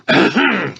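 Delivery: high sharp sneeze. Acted. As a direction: sneeze loudly. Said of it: "He sneezes".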